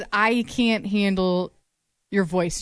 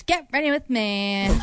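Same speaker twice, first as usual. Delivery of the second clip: slow, drawn-out influencer intro; 2 semitones higher, slower than usual. Retold or imitated. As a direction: lightly mimic an influencer. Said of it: "that's what everybody does".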